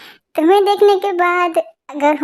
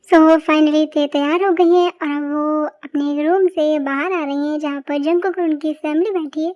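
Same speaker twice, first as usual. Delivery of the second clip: story narration. A narrator's reading. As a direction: ease back into telling the story. Narrator returns between scenes. (धीमी आवाज़ में कहानी सुनाना)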